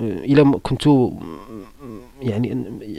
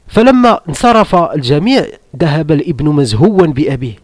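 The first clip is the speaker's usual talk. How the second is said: quoting a Saudi sheikh in measured formal Arabic; sheikh's lesson voice; 3 dB louder than usual. Retold or imitated. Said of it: "قال لك".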